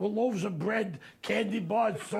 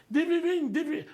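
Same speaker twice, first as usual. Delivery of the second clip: excited yell; 10 semitones higher, 4 dB louder than usual. Retold or imitated. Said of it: "from behind he said".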